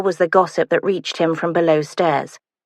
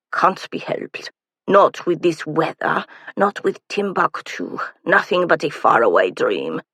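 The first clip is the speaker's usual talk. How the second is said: slow, dreamy and sighing; wistful. Acted. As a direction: drift off longingly, slowly. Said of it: "he said wistfully".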